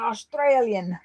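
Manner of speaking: "Australian" with a light put-on Aussie twang; a hint of an Aussie accent on "Australian"; odd Australian. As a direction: say "Australian" the way an Australian would, half joking. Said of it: "I don't know why I said Australian like that".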